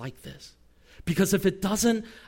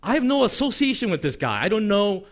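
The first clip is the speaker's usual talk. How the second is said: higher-pitched protest of innocence; mildly defensive, acted-out denial; 3 semitones higher than usual. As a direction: imitate someone quickly disowning a friend. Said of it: "Peter immediately denies it and says".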